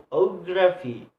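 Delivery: "geography" cut down to a stressed O-graphy. Shown as a demonstration. Teacher isolating the stressed part, punched O in "geography". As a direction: lean on the O of "geography". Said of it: "stress is placed on the third syllable".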